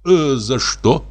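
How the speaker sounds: slow, gentle, puzzled question; gently. A narrator's reading. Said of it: "спросил мягко". (мягко, недоумённо)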